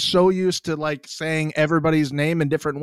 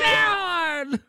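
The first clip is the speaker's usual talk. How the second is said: very high, drawn-out squeal; excited cheer; 12 semitones higher than usual. Real, not acted. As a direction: wail the name in fan-like excitement. Host keeps cheering the guest.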